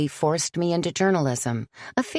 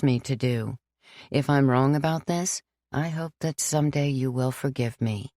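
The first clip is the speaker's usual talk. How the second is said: lightly voiced sorry priest; 2 semitones lower than usual. Father John apologizing to Sam, regretful.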